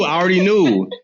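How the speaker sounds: laughing. Real, not acted. Repeats laughingly.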